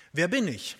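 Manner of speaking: poem recital. Acted. Preacher reciting a prison poem to his church, solemn and measured. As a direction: recite each question gravely to the congregation.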